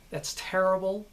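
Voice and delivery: hard, direct American syllables; harsh American delivery, every syllable specific; American accent. Shown as a demonstration. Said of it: "everything is very harsh, very specific, very direct".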